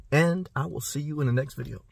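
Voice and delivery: soft breathy whisper of a sign-off; whispering see you next time to the viewers; whispered goodbye. Real, not acted. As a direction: hush it out like a secret farewell.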